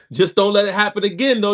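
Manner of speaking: said through a real laugh. Real, not acted. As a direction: laugh it out while warning them.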